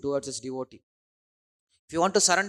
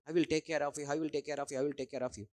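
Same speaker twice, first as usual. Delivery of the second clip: fading reassurance; 2 semitones lower, 7 dB quieter than usual. Acted. Krishna's promise repeated, fading softer.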